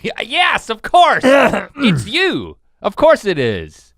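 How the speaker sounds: high mock agreement; sarcastically agree, voice up high; sarcastic. Mock agreement it's psychosomatic.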